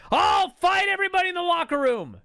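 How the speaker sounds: high, shouted wrestler's challenge, imitated; ranting and raving. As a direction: bellow a mock wrestling challenge. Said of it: "he's just fucking ranting and raving".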